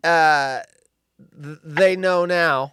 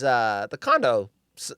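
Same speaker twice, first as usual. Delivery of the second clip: ordinary talk, nothing marked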